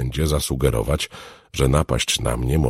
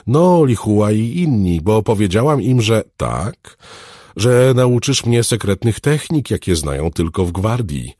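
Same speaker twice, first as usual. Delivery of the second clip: put-on high, louder child's chatter; eager little girl; 8 semitones higher, 6 dB louder than usual. Girl admits what she promised her friends, eager. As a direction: confess it in an excited girlish pitch.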